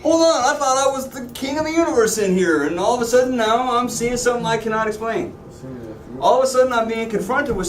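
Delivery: hammed-up king losing his nerve; mock-frightened king crying out; panicking king.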